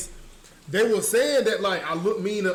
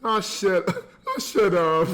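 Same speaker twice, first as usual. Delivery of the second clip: laughing retort; slower than usual. Pretend.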